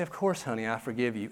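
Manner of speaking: soft, tender reassurance; gently forgive a crying child; a lightly voiced loving mom; tender mother. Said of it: "You say".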